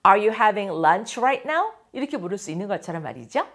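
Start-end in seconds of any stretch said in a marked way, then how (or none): 0.1-1.7 Are you having lunch right now? said very slowly, rising at the end; slow, careful question for learners; slow model question. Shown as a demonstration. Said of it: "teacher models the question".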